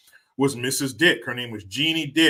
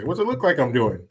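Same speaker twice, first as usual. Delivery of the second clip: imitating dad; 3 dB louder than usual. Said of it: "My dad would say".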